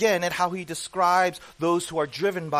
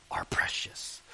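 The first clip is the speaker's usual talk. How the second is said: Gollum whisper; 5 dB quieter, slower than usual. Retold or imitated. Echoing Gollum's phrase.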